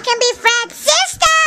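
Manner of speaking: high, excited squeak; Fred-like squeaky voice. Pretend. Girl jokes she could be Fred's sister, high Fred-like squeal. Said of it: "you sound like Fred".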